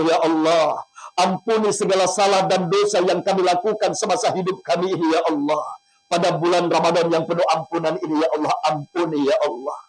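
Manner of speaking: emotional prayer. Acted. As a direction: plead with God, guiding the listeners. Leads an emotional prayer and guided imagery.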